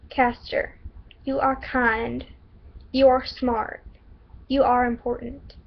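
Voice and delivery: put-on slow, deliberate Southern accent; spaced-out affirmations in a put-on Southern accent. Shelby affirms Caster's worth, slow Southern accent. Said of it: "stereotypical Southern accent".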